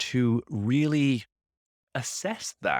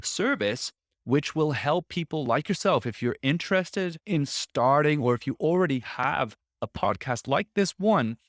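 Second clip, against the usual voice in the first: a brisk ad read, pitched up; a light podcast ad-read voice; upbeat sponsor read; 2 semitones higher than usual. Acted. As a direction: pitch the service like a friendly host ad. Sponsor read for agency service.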